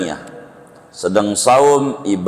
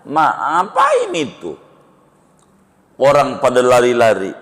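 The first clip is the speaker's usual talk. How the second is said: calf asking; 2 semitones higher than usual. Acted. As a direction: pitch way up like a little calf asking. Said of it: "Nanya lagi".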